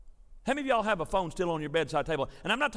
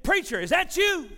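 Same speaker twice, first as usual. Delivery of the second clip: higher-pitched imitation of a woman caller; imitated young lady, pitched up; young lady's voice; 8 semitones higher, 3 dB louder than usual. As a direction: raise the pitch, an anxious caller on the phone. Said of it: "I heard this young lady's voice".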